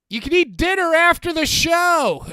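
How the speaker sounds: loud, high heckle from the crowd; heckling shout. Retold or imitated. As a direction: boom it out to the ring. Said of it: "and I was like".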